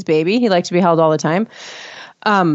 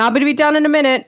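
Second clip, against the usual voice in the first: put-on high, reassuring talk to a crying baby; upbeat higher-pitched baby talk; cheery mommy voice; 6 semitones higher than usual. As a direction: imitate a mom comforting her little one. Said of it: "try to, like, cheer him up".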